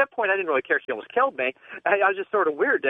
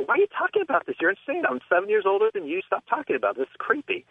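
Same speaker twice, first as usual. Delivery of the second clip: mock exasperation; 6 semitones higher than usual. Retold exasperated reply to girlfriend.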